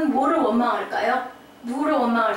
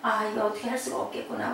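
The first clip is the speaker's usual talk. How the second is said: quick, softer resignation; acted depression; 5 dB quieter, faster than usual. Parent with no news left, softly dejected resignation. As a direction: give up under your breath, dejected. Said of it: "우울해집니다".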